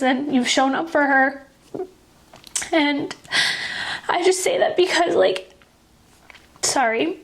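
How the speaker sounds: tearful and halting, with long pauses to recover; really choked up, pushing on through tears; holding back tears. Real, not acted. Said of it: "I didn't think I would cry".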